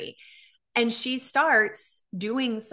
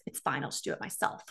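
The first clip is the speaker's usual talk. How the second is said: low, hushed passive-aggressive reply; mock wounded near-whisper; imitated sulky martyr; 6 semitones lower, 8 dB quieter than usual. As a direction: mutter it under your breath, mimicking mom. Imitating mom's sulky refusal.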